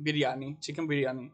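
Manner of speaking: biryani with a Pakistani accent. Real, not acted. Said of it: "You said that in such a Pakistani accent".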